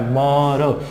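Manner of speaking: "म, र" drawn apart, each with a short अ; slight vowel between. Shown as a demonstration. Teacher showing the small sound in between, drawn apart. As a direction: let a little अ sound after म, then र. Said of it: "इसमें थोड़ा सा एक sound आ रहा है".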